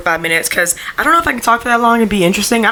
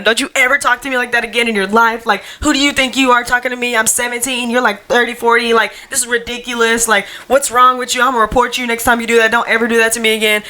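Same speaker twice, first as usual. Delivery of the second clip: retold screaming; 4 semitones higher than usual. To the older coworker who hit on her, a mild mock scream. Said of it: "screaming at him".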